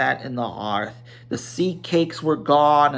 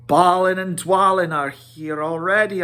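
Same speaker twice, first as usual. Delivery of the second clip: Kili's remark; 5 semitones higher, 4 dB louder than usual. A narrator's reading. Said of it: "said Kili".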